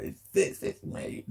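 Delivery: breathy whispered plea; unvoiced whisper. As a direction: whisper it to be noticed. Voicing needy plea, whispered.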